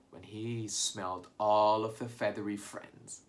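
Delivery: plain reading voice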